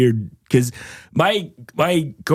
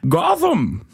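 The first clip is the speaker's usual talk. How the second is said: high, hammed-up villain voice; badly faked lofty supervillain, pitched way up; Bane; 13 semitones higher than usual. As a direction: proclaim it grandly as a movie villain. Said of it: "Bane is my favorite".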